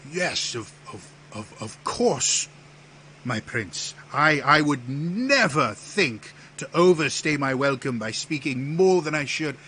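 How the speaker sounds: stammering, high, loud obsequious apology; flustered courtier. Acted. Theus excuses himself to his prince, flustered.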